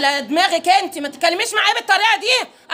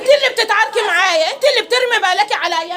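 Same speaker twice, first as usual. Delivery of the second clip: shout; 3 semitones higher than usual. Real, not acted. Quarrel in the street, shouting.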